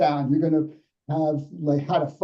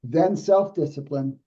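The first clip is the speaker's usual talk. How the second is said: slow, measured next step; slow play. Shown as a demonstration. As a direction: give the term room, unhurried. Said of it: "let me slow play it".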